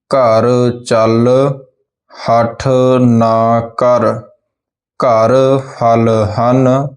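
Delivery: put-on slow, syllable-clear sentence reading for children; slow model reading for pupils to repeat; slow careful reading. Shown as a demonstration. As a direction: read ਜਲ ਭਰ slowly, every sound distinct. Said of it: "ਧਿਆਨ ਦੇ ਨਾਲ ਜਿਵੇਂ ਇਹਨਾਂ ਦਾ ਉਚਾਰਨ ਕਰਾਂਗੇ".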